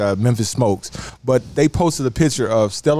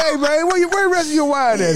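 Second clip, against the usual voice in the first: laughing; 11 semitones higher than usual. Retold or imitated. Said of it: "I'm like".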